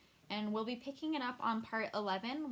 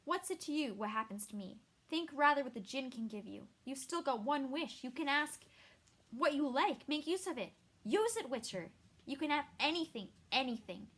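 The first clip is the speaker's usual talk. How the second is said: urgent pleading; 3 semitones higher, 3 dB louder than usual. Acted. Yennefer urges Geralt to wish.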